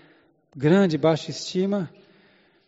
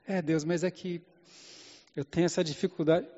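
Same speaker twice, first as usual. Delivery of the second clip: meek Moses; 8 dB quieter than usual. Acted. Moses meekly answers God.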